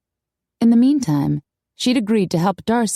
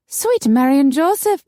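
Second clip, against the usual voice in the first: high, louder cry of shock; shocked exclamation; 8 semitones higher, 4 dB louder than usual. A narrator's reading. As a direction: exclaim as if scandalized.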